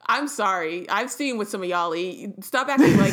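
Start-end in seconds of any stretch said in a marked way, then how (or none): 2.4-3.1 louder playful exasperation. Real, not acted. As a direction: blurt it out loud, exasperated. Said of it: "I'm so mad".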